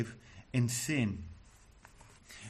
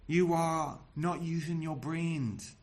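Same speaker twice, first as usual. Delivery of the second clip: slow, spaced-out reproach; acted exasperation, word by word; exasperated; 3 semitones higher than usual. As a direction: spell it out slowly, exasperated. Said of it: "because he is exasperated".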